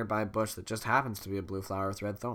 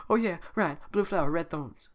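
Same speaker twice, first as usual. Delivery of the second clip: Donkey voice; 6 semitones higher than usual. Acted. Donkey remembering.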